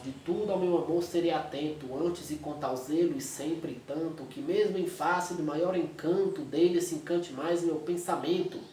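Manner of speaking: lightly rhythmic, measured sonnet reading; a hint of poetry recital; poem recital. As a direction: read the verses with gentle rhythm. Reads sonnet aloud.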